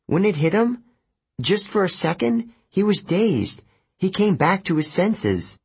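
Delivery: high-pitched, pleading insistence; insistent. A narrator's reading. Annabeth argues that Luke briefly came back, insistent. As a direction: argue urgently, pitch held up. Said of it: "Annabeth insisted".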